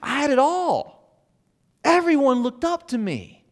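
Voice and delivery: Paul imitated as a boastful quarterback, a hint of swagger; bragging old quarterback. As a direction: puff up like the big man on campus, mildly hammed. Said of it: "he says, basically".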